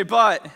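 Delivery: But, punched loud; one hard, ringing But; emphatic BUT. Shown as a demonstration. Preacher cueing other neighbors to repeat, loud punched But. Leading congregation to repeat the word.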